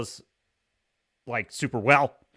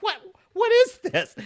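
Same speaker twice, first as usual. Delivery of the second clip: high, loud baffled what; incredulous; 6 dB louder than usual. Retold or imitated. Reacting to the weird cartoon, loud disbelief. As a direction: sound totally thrown. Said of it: "I'm like".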